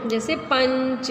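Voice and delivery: पंच said slowly with a clear nasal न before च; slow demo of पंच. Shown as a demonstration. Teacher showing children the nasal sound, slowly. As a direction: let the न hum through the nose in पंच. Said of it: "देखिए हम बोल रहे हैं तो ना थोड़ा सा होता है".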